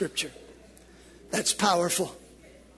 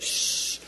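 polite shush; 4 dB quieter than usual. Retold or imitated. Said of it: "we're not gonna be so polite".

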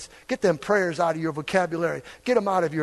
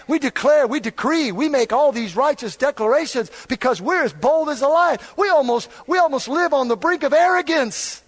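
fiery pulpit shout; preaching at full force; 7 semitones higher, 4 dB louder than usual. Acted. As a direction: thunder it at the congregation. Preaching declarations.

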